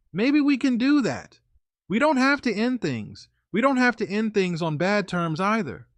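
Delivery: sweet, coaxing plea; pleading girlfriend. Retold or imitated.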